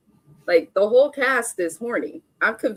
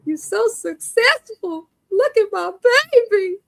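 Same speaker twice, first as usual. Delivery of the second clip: proud hype; 12 semitones higher, 4 dB louder than usual. Real, not acted. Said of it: "proud hype of friend".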